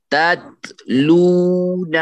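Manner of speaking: تتلون slow, sung out, the ت soft; soft recitation. Shown as a demonstration. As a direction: chant تتلون slowly with soft ت. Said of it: "پستی کے ساتھ".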